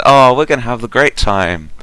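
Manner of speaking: high, bright and eager; thrilled to have a friend; excited. Acted. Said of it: "gets very excited about Dexis".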